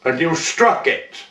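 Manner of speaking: put-on poem recited as a young lady, lilting lightly; lightly voiced young lady. Young lady writing to Joe back on Poverty Flat, lightly acted verse. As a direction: recite it as a lady's chatty letter in verse. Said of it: "believe that I am a, a young woman, lady".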